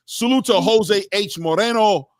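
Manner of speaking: "Moreno" said slowly the Spanish way, rolled and careful; careful, respectful name read; Spanish pronunciation of the name. Real, not acted. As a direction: sound out "Jose H Moreno" as a Spanish speaker would. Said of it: "I try to say it with the right accent".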